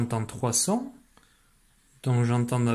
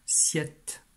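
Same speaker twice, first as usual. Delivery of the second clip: whispered; 3 dB quieter than usual. Shown as a demonstration. Teacher whispering the dictation syllable to the pupil. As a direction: whisper "Siette" with no voice.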